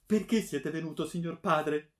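high, loud, distraught question; beside herself. A narrator's reading. Daughter repeating her question to her father, beside herself. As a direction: blurt it out high and panicked. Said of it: "senza sapere quello che dicesse, fuori di sé".

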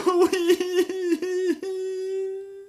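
high puppet wail; wailing cry. Acted. Pinocchio scoppia a piangere davanti a Geppetto, pianto acuto. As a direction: howl out the tears. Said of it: "cominciò a piangere e a berciare".

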